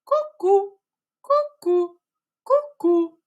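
high loud cuckoo calls. Shown as a demonstration. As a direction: call like a cuckoo. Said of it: "як кукують, е, зозулі?".

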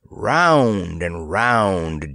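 drawn-out spinning words; slow whirling. A narrator's reading. Narrator describing the company whirling down, slowly. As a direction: let the words spiral down.

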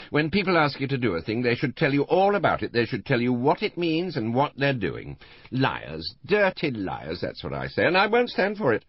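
put-on high, loud, tipsy old lady bristling; tipsy indignant old woman. Tipsy Mrs Rival complaining.

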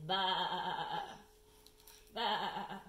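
put-on bleating baby sheep. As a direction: bleat like a little lamb. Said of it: "the baby sheep says".

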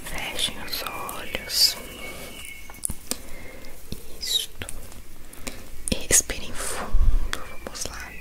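slow whispered relaxation guide; guided meditation. Acted. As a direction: whisper them into calm, slowly. Leads whispered breathing relaxation.

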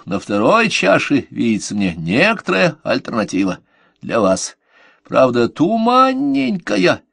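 slow, solemn prophetic intoning; oracle voice. Acted. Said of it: "сказал голосом оракула".

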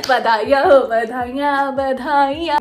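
loud, teasing cheer of congratulations; mock congratulations. Congratulating herself on first period, loud mock cheer. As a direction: cheer it like a family celebration.

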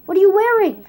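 loud, high, incredulous; mocking outrage. One Lego figure mocks another's outfit, loud incredulous jeer.

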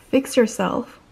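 loud, firm telling-off; scolding. Real, not acted. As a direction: order the site to sort it out. Scolds the ticket site.

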